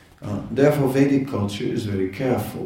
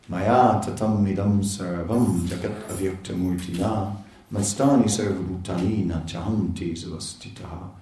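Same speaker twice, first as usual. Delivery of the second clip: verse recitation. Acted.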